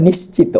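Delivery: নিশ্চিত ending "-to", as "nishchito"; correct final o. Shown as a demonstration. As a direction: sound an o at the end of নিশ্চিত. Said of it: "এটার সঠিক উচ্চারণ হলো নিশ্চিত". (নিশ্চিত শেষে ও-কার দিয়ে)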